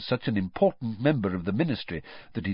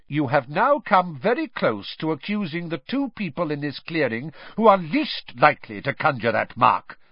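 barking; 5 semitones higher than usual. Acted. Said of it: "barked Mister Crouch".

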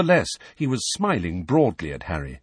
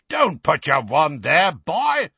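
high, loud rebuke; roaring; 7 semitones higher, 5 dB louder, slower than usual. A narrator's reading. Moody scolding Harry about his wand, roaring. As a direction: roar it at a careless youngster. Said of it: "roared Moody".

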